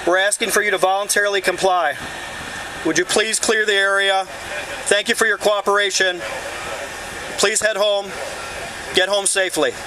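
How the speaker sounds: loudspeaker announcement; blasting sound cannon. Real, not acted. Loudspeaker order to the crowd.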